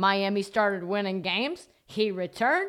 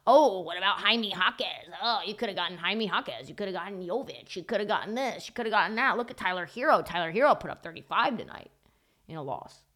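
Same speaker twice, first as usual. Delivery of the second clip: mock pestering fan chatter, run together; chirping fans imitation. Host mimicking fans' constant chirps about players he missed, mock pestering. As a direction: parrot nagging fans piling on examples. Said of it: "constantly getting chirps about".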